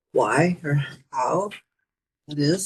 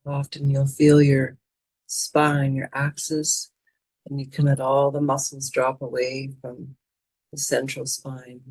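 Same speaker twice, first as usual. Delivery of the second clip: calm, even meditation voice with long pauses; guided meditation. Acted. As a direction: guide them inward, phrase by unhurried phrase. Leads a mindfulness meditation.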